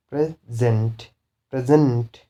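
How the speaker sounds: pre-SENT, weight on the second syllable of present; second-syllable stress. Shown as a demonstration. Teacher demonstrates the verb, stress on SENT in present. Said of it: "stress should be on second one".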